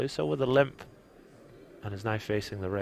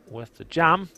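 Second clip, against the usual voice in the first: excited call; 7 semitones higher, 8 dB louder, slower than usual. Real, not acted. Poker commentary big all-in call.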